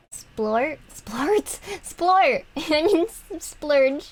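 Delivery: rising from a puzzled question to a loud, high shout; building exclaim. Real, not acted. To stream chat, sliding into toilet jokes, building to a gleeful loud shout. Playing with toilet-joke words.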